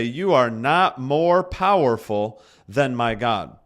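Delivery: slow, firm words to the circumstance; defiant declaration. Pretend. Pastor models defying a hard circumstance, slow and firm. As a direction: speak it down with bold courage. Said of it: "look at that circumstance and say".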